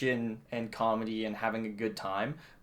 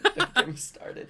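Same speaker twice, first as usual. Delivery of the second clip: high, loud exasperated cry; exasperated outburst; 5 dB louder than usual. Real, not acted. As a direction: blurt it out high and loud, fed up. Hates the movie, repeats louder.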